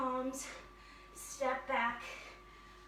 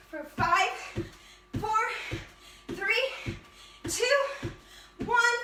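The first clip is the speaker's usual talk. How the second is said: rising, louder coach count; loud countdown; 5 semitones higher, 5 dB louder, slower than usual. Real, not acted. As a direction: count down, building louder to the end.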